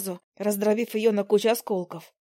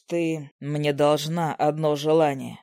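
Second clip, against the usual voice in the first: low slow husband; 6 semitones lower, slower than usual. Acted. Husband reminds wife of debt.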